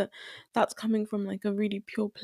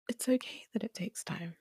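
soft whisper; 5 dB quieter than usual. Real, not acted. Reassuring listener it takes time, whispered. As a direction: repeat it in a softer whisper.

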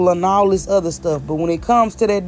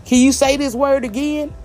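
imitated nosy questioner; 6 semitones higher than usual. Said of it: "I don't go around saying".

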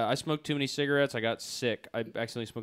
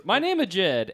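put-on higher, louder cocky teen leader; Jed character voice; 8 semitones higher, 11 dB louder, slower than usual. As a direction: play it as a full-of-himself gang leader. Jed intro.

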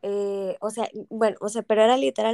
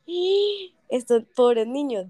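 pitying attendant; slower than usual. Retold or imitated. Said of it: "como quien dice".

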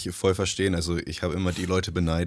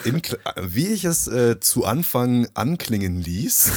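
slow, overly careful and stilted, pitched up; mock formal correction; 4 semitones higher, 4 dB louder, slower than usual. Host correcting his grammar with slow mock-formal precision. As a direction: spell out the proper grammar with mock pomp. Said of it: "so sollte ich reden".

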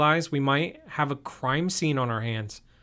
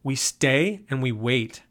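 commanding; slower than usual. Acted. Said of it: "Jason commanded".

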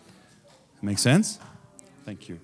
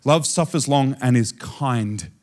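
slowly measured poetic phrasing; slower than usual. Shown as a demonstration. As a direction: let each word stand, unhurried. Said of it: "This is poetic".

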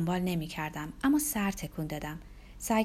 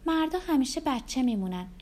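higher, knowing woman's remark; lightly voiced Rebecca; 6 semitones higher than usual. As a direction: pitch it up as a teasing confidence. Rebecca repeats the heroine's remark.

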